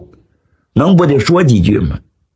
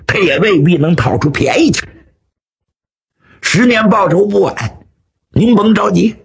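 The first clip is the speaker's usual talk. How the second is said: slightly raised, eager flattering voice; lightly voiced consoling henchman; 5 semitones higher than usual. Henchman consoles the beaten old swordsman, lightly acted flattery. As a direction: soothe the old master, egging him on.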